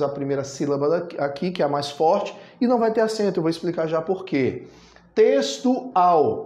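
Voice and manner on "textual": "Textual" sounded out towards a strong "al"; "Textual" as tex-tu-AL; stress on last syllable. Shown as a demonstration. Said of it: "a última já é a sílaba mais forte".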